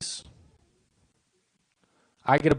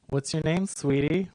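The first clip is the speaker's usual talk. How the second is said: higher, lilting, with rising endings; feminine voice; 4 semitones higher, slower than usual. Shown as a demonstration. Comic showing the less threatening way to ask a girl's name, feminine. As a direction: sing it up sweetly like a woman. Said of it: "in a really feminine voice".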